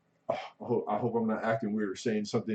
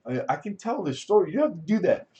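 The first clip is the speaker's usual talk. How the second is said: mock reassuring voice; 9 semitones higher, 5 dB louder, faster than usual. Mocking the host's reassurance.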